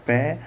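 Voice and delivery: crisp "p" plus open "eh" in पे; पे as the letter's plain sound. Shown as a demonstration. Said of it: "पी का उच्चारण क्या होता है".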